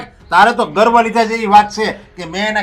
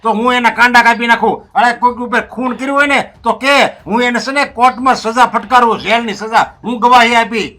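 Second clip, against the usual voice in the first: heated, pitch pushed higher, pressing each point; raised angry voice; 3 semitones higher than usual. Acted. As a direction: argue hotly at his wife, voice climbing. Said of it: "જરા ધીમે બોલો ને".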